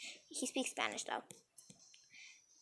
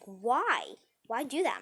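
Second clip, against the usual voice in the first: retold protest; 6 dB louder, slower than usual. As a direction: act out a child protesting to mom. Child's protest to mother, retold.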